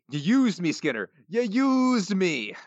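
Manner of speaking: Willie yelling. Retold or imitated. Quoting Willie shouting.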